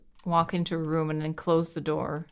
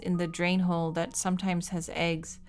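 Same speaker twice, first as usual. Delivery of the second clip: steady letter reading voice; reading a diary aloud; much faster than usual. Acted. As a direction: read the diary entry evenly.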